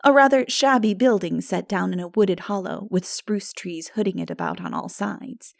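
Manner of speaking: usual speaking voice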